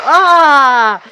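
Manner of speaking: long, loud, high scream; scream of pain. Acted. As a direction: scream as if hit by fire. Burnt in play fight. (long cri de douleur)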